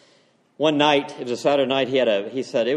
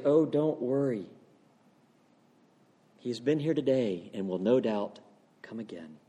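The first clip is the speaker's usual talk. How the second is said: soft, comforting recollection, sinking lower; gentle reassurance; 3 semitones lower, 7 dB quieter than usual. Acted. Pastor recalling the comforting phrase from his dream, gently. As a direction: ease down quietly to the last word.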